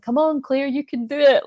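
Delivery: put-on high, loud little-kid encouragement; eager high-pitched pep talk, mimicked; imitated cheering child. Voicing toddler niece cheering her on.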